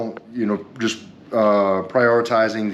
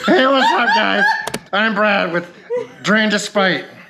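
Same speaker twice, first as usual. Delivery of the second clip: very high, put-on drunken talk; 12 semitones higher, 3 dB louder than usual. Introducing himself, the speaker pretends to be drunk: fake drunk voice. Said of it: "that was my impersonation of being drunk".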